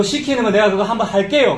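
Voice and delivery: mildly acted defiant offer; challenging. Preacher imitating the people daring God, mildly challenging. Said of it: "라고 따지는 겁니다".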